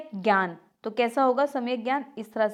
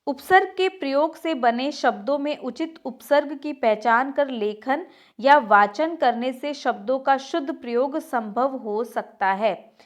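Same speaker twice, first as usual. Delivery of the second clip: measured textbook reading; reading aloud; 2 semitones higher than usual. Acted. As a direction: read the rule out phrase by phrase. Reads the textbook rule aloud.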